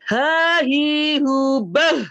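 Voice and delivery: "Ha, hi, hu" from the bottom of the throat, loud; breathy deep "Ha", "hi", "hu"; teacher showing a throat letter. Shown as a demonstration. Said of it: "Jadi makanya dia dalam gitu".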